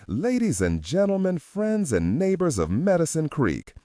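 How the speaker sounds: high, ringing announcement to the crowd; booming. A narrator's reading. Host introduces the guest of honor to the crowd, booming. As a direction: boom it out across the hall. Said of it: "Art Ritter boomed to the assembly".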